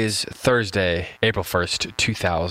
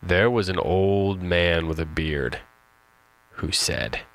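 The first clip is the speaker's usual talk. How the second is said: emphatic; 2 semitones lower, slower than usual. Shown as a demonstration. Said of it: "one more time with emphasis".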